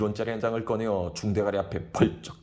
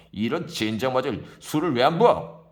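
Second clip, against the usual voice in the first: put-on loud, higher drunken shout for more; drunken demand; 5 semitones higher, 7 dB louder than usual. Drunk Kim yelling for more wine. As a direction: yell for the bottle.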